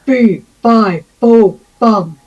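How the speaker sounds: a hint of a big giant; lightly voiced giant chant; student copies the beanstalk giant, lightly voiced. Shown as a demonstration. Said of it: "the giant from Jack and the Beanstalk".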